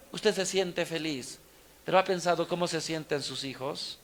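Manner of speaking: ordinary delivery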